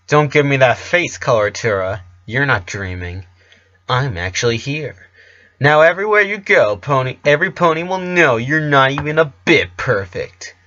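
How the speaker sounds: a sneering rival mocking the star, rising on the taunt; mocking intruder. The intruder mocks Rara.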